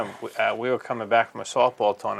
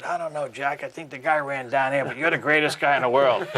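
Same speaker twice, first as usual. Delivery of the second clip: mock meek flattery; 3 semitones higher than usual. Placating the player he heckled.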